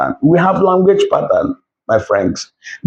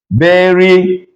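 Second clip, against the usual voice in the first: verification in Spanish, split by a long gap; veri, pause, ficación; syllable by syllable. Shown as a demonstration. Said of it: "You now have".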